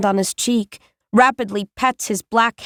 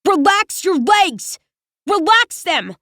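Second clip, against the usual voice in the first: mild mock scream; 8 semitones higher than usual. A narrator's reading. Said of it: "screams in his face".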